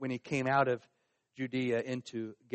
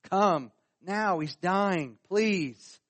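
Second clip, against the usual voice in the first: urgent acted plea, higher and louder; crying out for mercy; 4 semitones higher, 4 dB louder, much slower than usual. Father begs Jesus to come to his dying son, pleading. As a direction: beg for mercy in short, raised bursts. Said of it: "So he cries out for mercy".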